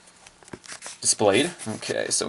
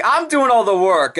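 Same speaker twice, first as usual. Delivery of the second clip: higher, louder put-upon voice; Shokaku's voice; 11 semitones higher, 5 dB louder than usual. Acted. Shokaku carrying the fight, higher complaint. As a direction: complain proudly. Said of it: "Shokaku's just kinda like".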